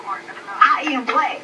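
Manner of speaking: "I am black" stretched out very slowly; insistent assertion. Real, not acted. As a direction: draw out each word of "I am black" to insist. Insisting again after being contradicted.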